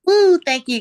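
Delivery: a high, loud whoop of thanks; excited woo. Real, not acted. Taking the ball from Gaji, a high loud whoop. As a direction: whoop it out, then thank them.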